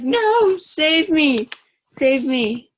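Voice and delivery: high, loud mock wail; hammed-up desperate begging, easing off slightly; crying plea. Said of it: "Trump starts crying".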